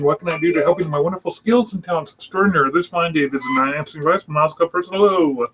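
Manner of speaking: showy announcer-style phone greeting in one breath; grand phone greeting spiel. Shown as a demonstration. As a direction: reel off the greeting like a proud announcer. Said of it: "This is gonna be a treat for you".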